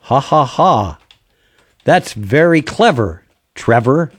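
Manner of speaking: AI sidekick voice. Shown as a demonstration. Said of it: "So what did you want it to say?".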